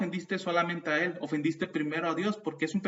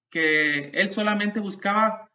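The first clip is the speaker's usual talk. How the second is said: fervent cry; 3 semitones higher, 7 dB louder than usual. Real, not acted. Preaching climax.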